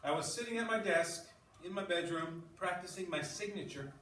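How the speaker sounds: reading a story aloud to the class; steady read-aloud narration. Acted. Teacher starts reading story aloud.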